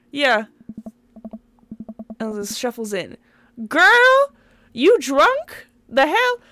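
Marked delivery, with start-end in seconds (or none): 3.7-6.4 high, loud incredulous yell at the daughter; shocked shout. Acted. Dad yells at his daughter coming in late, loud and shocked. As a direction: blurt it out in loud disbelief.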